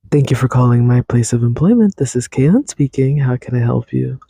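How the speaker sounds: polite phone-agent greeting, lightly put on; customer service voice. Host answering a pretend call, lightly polite customer service voice. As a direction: answer the phone like a cheerful call-centre rep. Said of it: "in my customer service voice".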